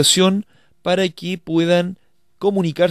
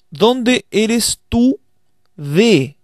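slow literal gloss; 3 semitones higher, much slower than usual. Shown as a demonstration. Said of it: "Si nosotros traducimos literalmente".

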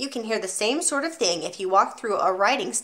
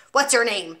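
1 barked question; 4 dB louder than usual. Acted. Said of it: "she barked".

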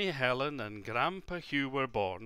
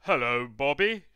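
groaned greeting; 8 dB louder than usual. Acted. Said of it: "groaned Angus".

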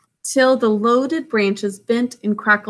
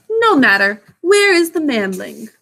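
snake voice; 4 semitones higher, 4 dB louder than usual. Acted. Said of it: "Kaa said".

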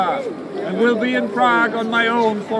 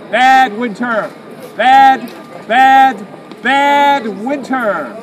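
loud scolding; 7 dB louder, slower than usual. Acted. Crier scolds winter.

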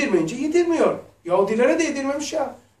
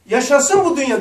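mock joy; 3 semitones higher, 7 dB louder than usual.

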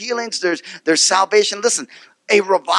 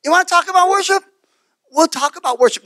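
gentle Jesus, agreeing; 10 semitones higher than usual. Retold or imitated. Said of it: "It's like".

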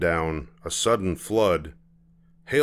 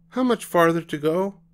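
put-on whiny child; 10 semitones higher, 3 dB louder than usual. Child asks.

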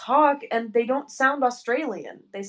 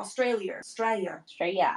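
Australian accent attempt; 3 semitones lower, 4 dB quieter than usual. Shown as a demonstration. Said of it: "I'm trying to shadow your".

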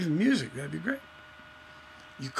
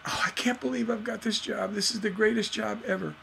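thrilled new editor; 5 semitones higher, 4 dB quieter, faster than usual. Acted. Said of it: "they'll just be like".

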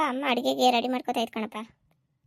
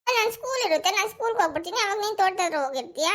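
higher, whiny crying voice easing down; acted weepy whine; tearful protest; 4 semitones higher than usual. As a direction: object tearfully, as an upset child. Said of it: "ನೀನು ಅಳು ನಿಲ್ಸ್ಲಿಲ್ಲ ಅಂದ್ರೆ".

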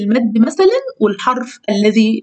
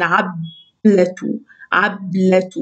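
slow syllable reading; 4 semitones lower, much slower than usual. Shown as a demonstration. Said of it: "يعني المقطع الساكن".

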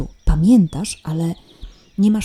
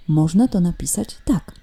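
hushed aside, no voice; whisper. Shown as a demonstration. Teacher whispering a tip to the pupil.

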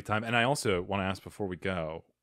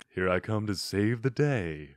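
smooth, mock-sultry superhero; Batman impression. Batman coming to save the day, lightly sultry voice. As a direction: lightly croon it as a silky hero. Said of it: "sultry voice".

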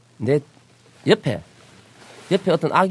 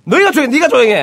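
much higher, louder mock shout; old man shouting back; 13 semitones higher, 6 dB louder than usual. Grandfather behind them shouting down the yelling father, mock fury. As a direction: tell him off even louder than he yelled. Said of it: "뒤에 있는 할아버지".

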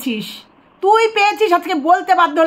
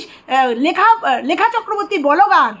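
mocking imitation; slower than usual. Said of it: "আজকে এগারো মাস বাদে বলছিস".

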